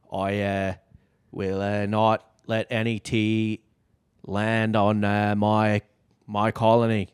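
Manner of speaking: put-on slow, deliberate Boston accent like JFK; JFK impression. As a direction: give it a measured Kennedy Boston lilt. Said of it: "Just do a little J F K".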